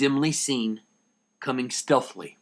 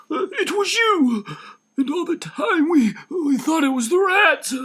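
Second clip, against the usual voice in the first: accusing shout; 4 dB louder than usual. Acted. Dussel realizing the thief, accusing shout. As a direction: hurl the accusation at him.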